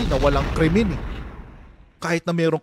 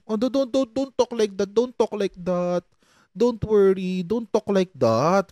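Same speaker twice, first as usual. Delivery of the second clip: slowing, drawn-out mock plea; mock mild scolding; 3 semitones higher than usual. Bato merely admonishing someone, mock mild scolding. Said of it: "Pinagsabihan lang".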